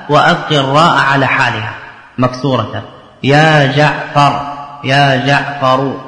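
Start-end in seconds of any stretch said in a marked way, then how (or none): 3.2-6.0 drawn-out vocative call. Shown as a demonstration. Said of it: "تحذف الراء".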